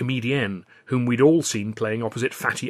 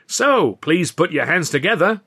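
louder, higher call for applause; rally the room to clap; announcer call; 7 semitones higher, 7 dB louder than usual. Acted. Burstein asks for applause.

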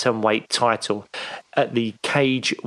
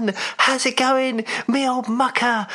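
hearty greeting; 11 semitones higher than usual. Pretend. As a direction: greet an old mate with gusto. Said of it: "and do it really loudly".

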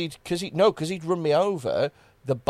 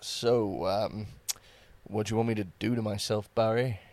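low, soft sultry voice; phone sex voice; 4 semitones lower, 4 dB quieter than usual. Pretend. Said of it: "this is my phone sex voice".

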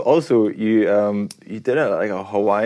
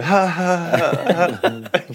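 fake canned laughter; 8 semitones higher than usual. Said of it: "add some canned laughter yourself".

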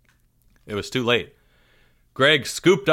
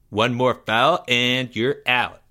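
smug; slower than usual. Acted. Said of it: "said Greg, unnecessarily".

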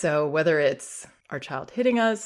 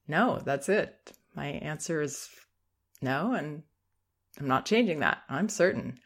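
calm certain no; 4 dB quieter than usual. Shown as a demonstration. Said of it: "certain, comfortable, confident".

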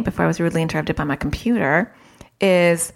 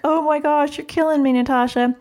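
mock exasperated wail, much higher; a parent protesting in a high pitch; 9 semitones higher than usual. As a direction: whine at the host in mock despair. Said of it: "I know you're gonna be like".

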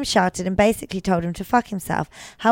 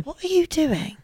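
mock scolding; 7 semitones higher, 3 dB quieter than usual. Mock-scolding co-host picking nails.

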